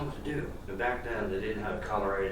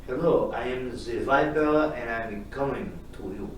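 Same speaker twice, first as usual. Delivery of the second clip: creepy caller voice; 3 dB louder than usual. Acted. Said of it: "someone saying".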